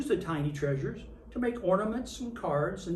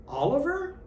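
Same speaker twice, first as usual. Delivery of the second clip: high, curious little elf voice; elf asking; 9 semitones higher, 3 dB louder than usual. A narrator's reading. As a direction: call his name with a questioning lift like a tiny elf. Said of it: "an elf asked".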